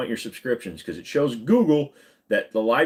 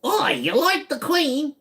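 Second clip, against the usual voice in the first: high, drawn-out British attempt; badly faked British voice, way up high; botched British accent; 13 semitones higher, slower than usual. Shown as a demonstration. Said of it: "can't even do a British one".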